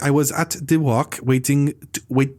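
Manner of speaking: mock halting English. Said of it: "you're stuttering like you're searching for".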